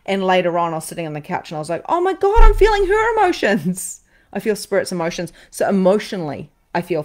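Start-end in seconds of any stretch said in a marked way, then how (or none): 1.9-4.0 stunned realization. Retold or imitated. Retelling sudden realization on couch.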